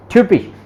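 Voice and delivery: ट्यूपिश with a rounded ü vowel; German typisch. Shown as a demonstration. Tutor showing German typisch to a Hindi speaker. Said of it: "ये ना लेके इसको यू कर दो".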